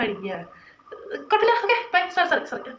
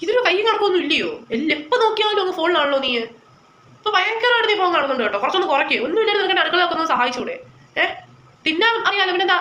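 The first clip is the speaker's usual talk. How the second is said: nagging mother, a bit louder, scolding her daughter; a mother tearing into her child over the phone; fed-up mother lecturing her phone-addicted daughter; 4 semitones higher, 3 dB louder than usual. Acted.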